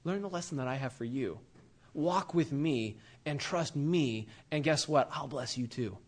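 put-on calm a sulking child down gently; gentle God. God soothing an angry believer, soft and reassuring. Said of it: "And God's like".

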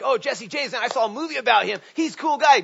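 excited fan gush. Retold or imitated. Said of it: "people be like".

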